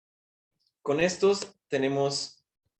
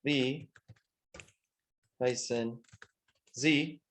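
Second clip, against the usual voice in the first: slow dictation, long gaps between words; palabra por palabra; much slower than usual. Shown as a demonstration. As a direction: give each word alone, as if writing it. Escribe la pregunta palabra por palabra. (dictado lento, palabra por palabra)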